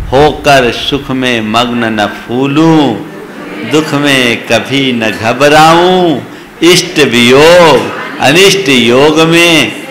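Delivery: measured, slow devotional recitation; slow poem recital. Acted. Preacher reciting a prayer verse to the congregation, slow and measured. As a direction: let each line of the verse sink in slowly.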